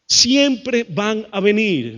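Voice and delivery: "Siempre" stressed, words slowly spaced out; emphatic. Real, not acted. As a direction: hammer "Siempre" slowly, then word by word. Slow emphatic repeat of key truth.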